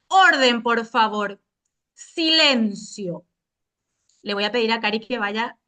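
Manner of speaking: stern, clipped classroom orders; curt authoritarian teacher. Pretend. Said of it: "léase con tono cortante y autoritario".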